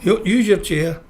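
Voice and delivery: slow, deliberate laying down the law; retold firm instruction. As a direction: spell the rule out slowly to her. Laying down rules to wife.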